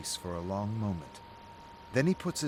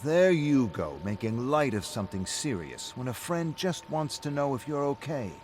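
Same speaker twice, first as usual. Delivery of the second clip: loud, high, mocking echo; heated comeback; 6 semitones higher, 5 dB louder than usual. Rick fires David's own words back at him, loud and heated. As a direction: throw his words right back at him.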